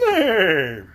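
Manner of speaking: a horse saying nay; trying a voice for the sawhorse; horse neigh word. Pretend. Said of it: "Sounds horse".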